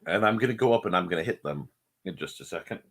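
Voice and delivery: talking while chewing gum; words around a wad of gum. Real, not acted. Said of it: "please pardon the gum".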